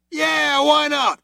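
high, casual; other cop agreeing. A narrator's reading. Second cop agreeing with his partner, high and casual. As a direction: shrug it off.

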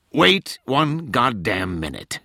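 slow, hard cut-off; stern interruption. Acted. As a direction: stop her dead, slowly. Tench cuts her off.

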